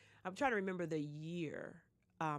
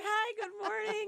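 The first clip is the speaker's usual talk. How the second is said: sleepy; 14 semitones higher, 4 dB louder than usual. Retold or imitated. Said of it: "you did sound a little sleepy".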